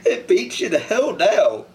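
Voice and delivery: pushing words out through tears; crying. Real, not acted. Man telling interviewer about his hometown, crying. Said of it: "I've never really cried like this before".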